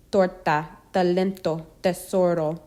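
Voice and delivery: T in Torta, talento, tesoro without a puff, tongue on teeth; unaspirated T. Shown as a demonstration. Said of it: "but not explosive".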